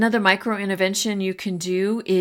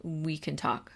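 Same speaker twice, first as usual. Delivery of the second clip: gentle calm teacher line; 8 dB quieter than usual. Shown as a demonstration. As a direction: reassure them quietly. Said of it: "when you can use a calm voice".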